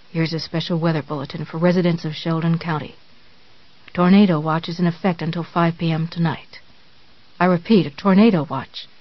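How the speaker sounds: radio bulletin. Acted.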